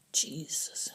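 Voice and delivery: breathless stunned whisper; a soldier stunned by the prisoner's story; whispered oath. Acted. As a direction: whisper it in disbelief. Shocked aside.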